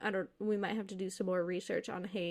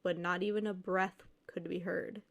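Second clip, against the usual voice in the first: measured read-aloud storytelling voice; story narration. A narrator's reading. Reads a posted ghost story aloud.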